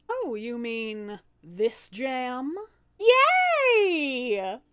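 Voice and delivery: high, loud squealing joy; delighted squeal. Acted. Demoness thrilled about the jam, high and squealing.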